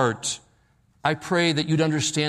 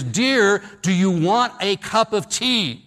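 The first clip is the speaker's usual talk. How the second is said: loud, higher "Dear" right behind her; mock yell as loud as he can; 5 semitones higher than usual. Husband right behind his wife's chair, mock yell. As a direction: bellow it at her ear, hammed up. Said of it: "as loud as he can".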